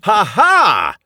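teasing God. Retold or imitated. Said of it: "It was God going".

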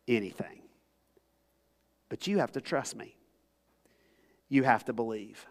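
soft and gentle, fading to a breath on my friend; quiet, compassionate encouragement; tender reassurance. Retold or imitated. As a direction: comfort him kindly as Jesus. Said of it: "with all the tenderness and compassion".

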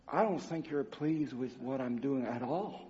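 soft, low confession to God; kneeling by the bed, a hushed sorry; hushed prayer. Retold or imitated. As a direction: pray it quietly, ashamed. Tearful prayer beside the bed.

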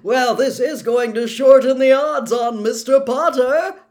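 excited commentator shouting to the crowd; high, loud and elated; yelling. A narrator's reading. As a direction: shout it like a thrilled announcer. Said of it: "Bagman was yelling".

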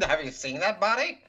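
swooning admirer. Pretend. Voicing a smitten character.

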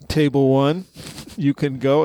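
lightly voiced teacher releasing a table; measured instruction with lifted endings; Ted. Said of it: "being a school teacher".

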